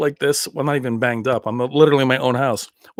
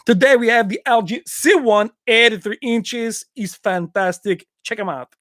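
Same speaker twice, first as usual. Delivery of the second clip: put-on accented action-star product pitch, higher and slowed; Van Damme impression; 5 semitones higher than usual. Introducing a TV to viewers, mock Van Damme impression. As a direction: stretch the sizes out in a comic foreign accent. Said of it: "my T V reviews like that".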